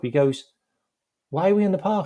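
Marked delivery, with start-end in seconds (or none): 1.3-2.1 high-pitched incredulous question; baffled, pitched well up; retold bafflement. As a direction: imitate a confused manager. Manager questions park training, retold.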